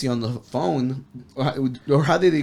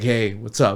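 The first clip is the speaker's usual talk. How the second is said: silky, smooth, low voice; 5 semitones lower than usual. Retelling how Tony answered the phone, in Tony's smooth voice. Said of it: "the smooth voice comes out".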